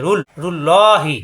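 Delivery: রুল then রুল্লাহি, slowly joined; syllable joining. Shown as a demonstration. Teacher building the word piece by piece, slow. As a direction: join রু to the ল in রুল্লাহি. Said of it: "রু মিলবে লামের সাথে".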